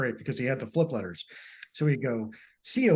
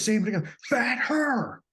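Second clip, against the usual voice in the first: imitating the dad's whiny, near-crying outburst, higher and slower; mock a kid losing it, voice cracking into a cry; angry kid; 10 semitones higher, slower than usual. Kid furious at laughing family, mock crying whine. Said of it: "this guy starts getting pissed".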